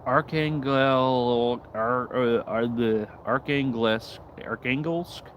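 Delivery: Archangelsk sounded out slowly and haltingly; unsure pronunciation. Real, not acted. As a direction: Archangelsk tried several times, slowly. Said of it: "I don't know how to say that".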